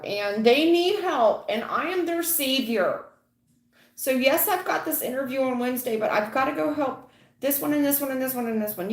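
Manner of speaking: high, whiny hammed-up pleading; mock client protest. Tarot reader mimicking a client who runs errands for everyone, high and mock-pleading.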